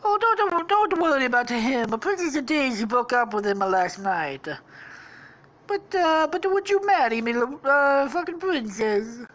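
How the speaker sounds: high, loud cartoon suitor; Mario, dismissive then wooing. Suitor proposing to the princess, high cartoon voice. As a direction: brush it off and propose in a put-on high voice. Mario figure in told story.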